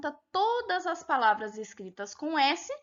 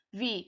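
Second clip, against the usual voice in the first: "viagem" broken into syllables, the A held long; stress on A; 5 semitones lower, 5 dB quieter than usual. Shown as a demonstration. Teacher letting pupils observe the syllables, "viagem" split with a long A. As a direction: say "viagem" in slow pieces, leaning on the A. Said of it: "O A é a sílaba tônica".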